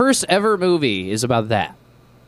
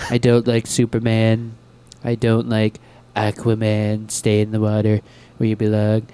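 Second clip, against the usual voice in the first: Trump Batman; 2 semitones lower than usual. Retold or imitated. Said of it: "I just feel like a Trump Batman".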